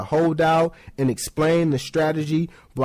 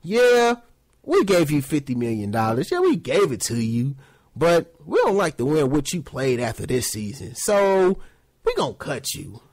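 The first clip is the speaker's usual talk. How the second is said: flat, dismissive league boss voice; the league telling a player he's cut, coldly; 3 semitones lower than usual. Retold or imitated. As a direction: hand down the cut without feeling. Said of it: "The N F L is like this".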